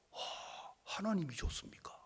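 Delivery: breathless hushed whisper; awed whisper. Retold or imitated. Son whispering in awe after hearing the verse. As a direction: whisper it in wonder.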